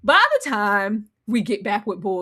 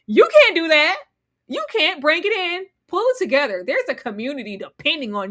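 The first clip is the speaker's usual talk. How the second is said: scolding; 5 semitones higher than usual. Retold or imitated. Scolding Boyd, voiced.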